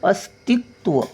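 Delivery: अस्तित्व in parts, light s and full t. Shown as a demonstration. Teacher showing half and full sounds, अस्तित्व carefully split. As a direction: separate अस्तित्व, landing fully on ति. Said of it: "सचा थोडासा उच्चार, तचा पूर्ण उच्चार".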